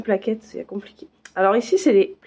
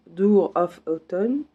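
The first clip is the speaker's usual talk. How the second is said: English title in a thick French accent; self-confessed rotten French accent in English; bad French accent; 2 semitones lower, much slower than usual. Real, not acted. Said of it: "Avec mon accent tout pourri".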